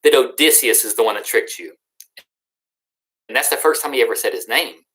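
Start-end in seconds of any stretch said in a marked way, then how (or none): 0.0-1.7 high mock taunt from the ship; a boastful hero showing off, lightly shouted; hammed-up taunt at the blinded giant; taunting yell. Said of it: "He starts yelling at the Cyclops".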